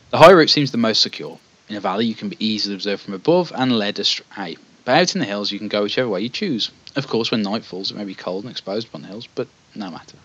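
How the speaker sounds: measured fantasy gamebook narration; storyteller setting out a quest; story narration. A narrator's reading. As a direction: read it like an epic tale, unhurried at the phrase ends. Reads gamebook narration aloud.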